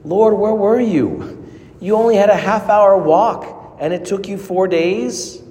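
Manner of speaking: Martha challenging Jesus, hurt and confronting; mild confronting complaint. Retold or imitated. Martha confronts Jesus over her brother, mildly reproachful. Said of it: "confront ... Jesus in prayer".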